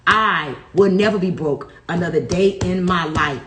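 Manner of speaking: firm, steady declarations, one per line; affirmation recital. Real, not acted. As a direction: declare each one like a vow you believe.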